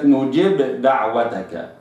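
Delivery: نجب with a clipped kasra; wrong reading. Shown as a demonstration. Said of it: "وليست".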